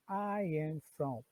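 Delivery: I am from said very slowly; slow model phrase. Shown as a demonstration. Teacher models the structure for students, slowly. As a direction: stretch each word for learners. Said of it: "eu utilizo essa construção aqui".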